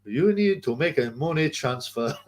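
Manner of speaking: lightly imitated scam caller; halting, slowing pitch for bank details; George prank caller. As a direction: play a comic phone scammer, slowing down. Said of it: "George was, was by far the best".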